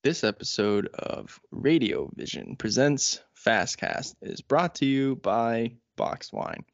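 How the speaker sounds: slow, deliberate announcer pitch; mock ad read. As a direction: sell it like a cheesy radio sponsor. Fake boxed wine ad.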